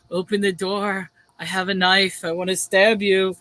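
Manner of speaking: imitating a calm, low-key menace; eerily calm. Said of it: "he's so calm about it".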